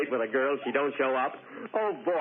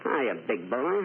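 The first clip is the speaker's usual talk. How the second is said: Mae West impression; 4 semitones lower, slower than usual. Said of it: "This is Mae West".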